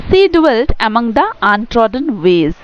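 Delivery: the opening line again, very slow and measured; slow poem reading. Shown as a demonstration. Teacher repeats the opening line for students, slow deliberate recitation. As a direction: recite each word carefully. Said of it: "তো বলা হয়েছে".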